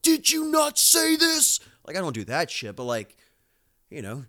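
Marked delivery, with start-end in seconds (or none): 0.0-1.6 high, loud, slow mock scolding; mock yell. Dad acting out scolding his daughter, a mock yell. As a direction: pretend to bark at the kid for a slip. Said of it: "I never, like, yell at her, like".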